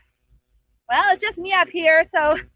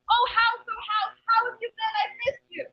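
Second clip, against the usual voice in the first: sing-song greeting; 5 semitones higher, 8 dB quieter than usual. Acted. Rabbit calls sweetly to house.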